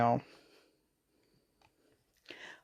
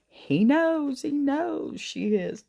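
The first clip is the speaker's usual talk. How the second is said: much higher, alarmed "he knows", the repeat slower; pitched-up panic of a kid caught out; panicked; 10 semitones higher, slower than usual. Retold or imitated.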